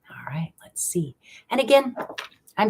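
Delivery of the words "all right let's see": soft whisper to herself. Real, not acted. Reader whispering while watching the pendulum swing. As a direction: breathe it out, barely voiced.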